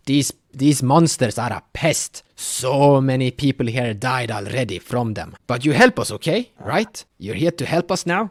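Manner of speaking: put-on an old leader pressing them to agree; urgent elder Haka.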